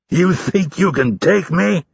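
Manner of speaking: slow, high-pitched incredulous question; amused disbelief. A narrator's reading. Instructor laughs at recruit's challenge, incredulous. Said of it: "Hurley laughed".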